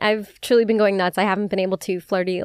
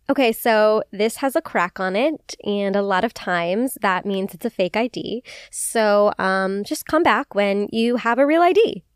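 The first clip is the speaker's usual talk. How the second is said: lightly voiced smug bouncer; a hint of talking down to them; condescending bouncer. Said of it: "said fully in that tone with those words".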